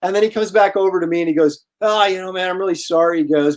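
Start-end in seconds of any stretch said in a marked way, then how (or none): 1.8-3.2 higher-pitched tipsy apology, imitated; lightly voiced drunk fan. Drunk fan apologizing to the artist, lightly imitated. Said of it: "and the guy's drunk".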